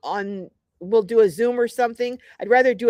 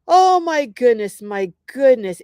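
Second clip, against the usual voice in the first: surprised; 2 semitones higher, 6 dB louder than usual. Real, not acted. Sees the time is late.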